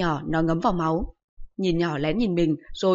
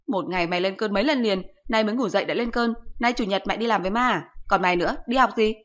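scolding mother; 2 semitones higher than usual. Acted. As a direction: scold the son like an exasperated mother.

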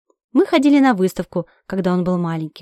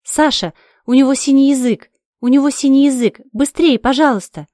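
loud, higher urgent yelling; frantic cry to Sasha about the dog; panicked shout; 4 semitones higher, 6 dB louder than usual. Acted. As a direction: scream at him to hurry. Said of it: "Я кричу".

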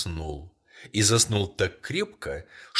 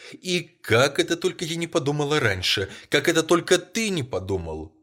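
higher and louder, breathless with sudden hope; broken, feverish voice; 7 semitones higher, 5 dB louder than usual. A narrator's reading. Wife suddenly remembers the wishes, feverish and broken. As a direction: rush it out, half sobbing, half laughing. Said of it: "судорожно прерывающимся голосом".

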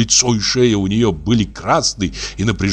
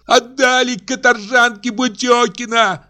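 much higher furious cry; angry shout. A narrator's reading. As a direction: fling the accusation. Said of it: "продолжала Аксинья кричать". (гораздо выше, злой крик)

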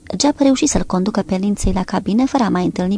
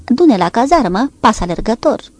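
snapping; 3 semitones higher, 5 dB louder than usual. Acted. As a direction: bark it at the driver. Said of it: "fiica de lord se răsti la el".

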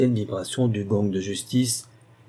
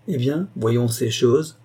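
amused; slower than usual. Acted. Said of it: "un sourire un peu moqueur".

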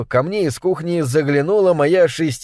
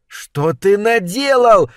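slow, higher, horrified cry; a touch of a shocked yell; mild mock scream; 5 semitones higher, slower than usual. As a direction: cry out in horror at the husband. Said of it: "закричала моя супруга".

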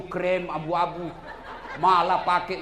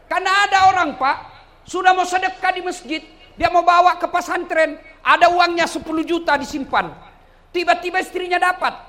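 loud, high pulpit delivery; forceful preaching; 11 semitones higher, 9 dB louder than usual. Acted. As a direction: project the anecdote to a big crowd. (ceramah berapi-api dengan suara tinggi)

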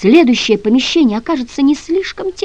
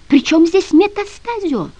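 wheezed; 7 semitones higher than usual. A narrator's reading. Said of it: "прохрипел тот".

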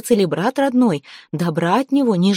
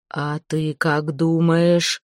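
a slow menace from beyond the grave; dead man's voice; much slower than usual. Acted. Dead Veres threatens Zateya, slow and menacing. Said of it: "спросил гость".

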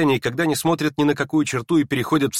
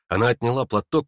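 plain reading voice

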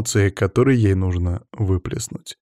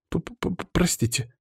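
slow, stammering the first sound; catching herself, stumbling over the word; flustered stammer; 8 semitones higher, 6 dB quieter, much slower than usual. Acted. Natasha remembers her manners with his father: slow, flustered stammer. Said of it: "опомнилась она".

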